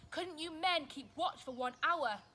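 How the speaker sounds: loud, hurt reproach; hurt, disappointed. A narrator's reading. Jesus to his sleeping friends, loud and hurt. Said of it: "He was hurt, disappointed".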